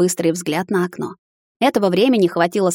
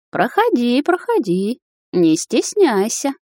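lightly voiced cooing old woman, higher and slow; 6 semitones higher, slower than usual. A narrator's reading. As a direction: coax the guest in, sugary-sweet. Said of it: "ворковала старушка".

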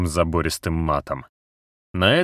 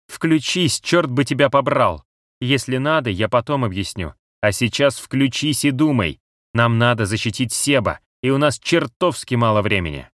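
angry shout; 5 semitones higher than usual. Acted. Cat shakes frozen Max.

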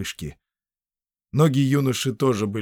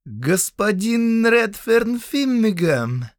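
high, slow, sneering drawl of a spoiled count; unpleasant voice; 12 semitones higher, 4 dB louder, much slower than usual. Acted. Count mocking the bound prisoner, slow high sneer. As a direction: savour the name with contempt. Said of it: "Голос его был ещё неприятнее взгляда".

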